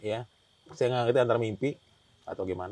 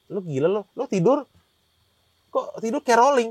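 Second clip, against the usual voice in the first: higher, louder imitation of a baffled friend; retold disbelief; 8 semitones higher, 7 dB louder than usual. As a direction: challenge him in mock amazement. Teman heran melihat posisi tidurnya. (menirukan teman yang keheranan)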